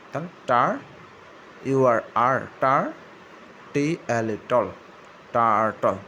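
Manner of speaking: loud, slow sounding out of টার and টল, then টার্টল; teacher blending the sounds into টার্টল. Shown as a demonstration. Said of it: "আর এর sound বাজাতে হয়". (শিক্ষকের মতো জোরে জোরে ধ্বনি মিলিয়ে পড়া)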